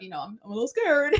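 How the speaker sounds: real, sheepish laugh creeping in; laughing admission. Real, not acted. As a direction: confess it through a giggle. Sheepish joking confession, laughing.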